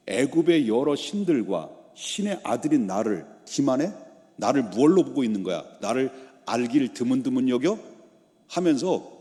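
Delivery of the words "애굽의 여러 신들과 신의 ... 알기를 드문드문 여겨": indignant ruler demanding an answer; offended god-king, hammed-up indignation; acted anger. Pharaoh feels deceived and slighted, acted indignation. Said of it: "화가 잔뜩 나가지고".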